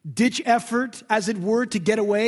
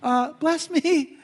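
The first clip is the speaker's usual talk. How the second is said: mock tapping out; 6 semitones higher, 3 dB louder, much slower than usual. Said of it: "you just need to tap out".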